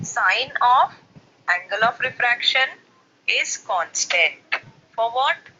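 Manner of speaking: slow, measured dictation with pauses between phrases; reading out a law. Real, not acted. Teacher reading Snell's law to the class, slow and deliberate. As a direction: read it out phrase by phrase for students.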